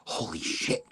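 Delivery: low, hushed disbelief; stunned realisation. Real, not acted. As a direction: let it slip out softly, nearly voiceless. Realises the date is this month.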